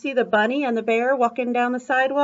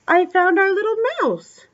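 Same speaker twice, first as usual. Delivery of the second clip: high, louder cry of finding it; playful excitement for a small child; delighted discovery; 8 semitones higher, 5 dB louder than usual. Pretend. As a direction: announce the find with high-pitched delight. Delighted find under picture book flap.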